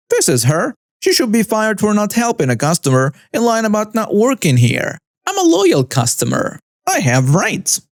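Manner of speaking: lightly voiced entitled customer, mock outrage; screeching Karen. Karen complaining to the manager, mild mock screech. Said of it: "still screaming and still screeching".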